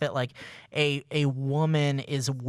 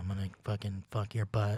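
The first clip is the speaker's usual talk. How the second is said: exaggerated, low, put-on seductive bedroom voice; 6 semitones lower, 7 dB quieter than usual. Showing off after an ASMR bit: put-on sexy voice. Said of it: "here's my sexy voice".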